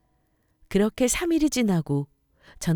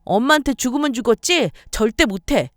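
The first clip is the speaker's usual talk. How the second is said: higher, louder defiant protest; defiant refusal; 6 semitones higher, 7 dB louder than usual. Acted. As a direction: refuse outright to mom. Daughter refuses to apologize. (엄마에게 반항하며 거부)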